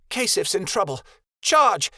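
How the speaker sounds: rally them, then roar the charge; rallying cry. A narrator's reading. Kia sending the girls into the fight, shouting the charge.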